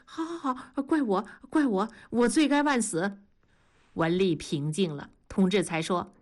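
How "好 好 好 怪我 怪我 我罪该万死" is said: 赶紧认错. Acted. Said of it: "同志赶紧说".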